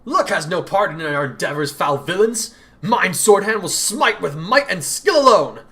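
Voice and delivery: hammy swordsman proclaiming his might; grandiose hero. Acted. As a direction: declaim like a stage knight. Hero declaims from the dark.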